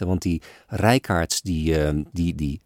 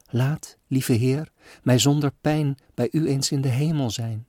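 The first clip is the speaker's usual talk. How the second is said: put-on child's prayer; 5 semitones higher than usual. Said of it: "haar kinderlijke bede".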